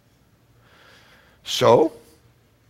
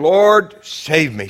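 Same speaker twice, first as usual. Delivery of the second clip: loud, raised call for help, acted; crying out; 4 semitones higher, 8 dB louder, much slower than usual. Preacher as Peter beginning to sink, crying out loudly. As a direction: imitate a sinking man's cry. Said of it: "he cried out".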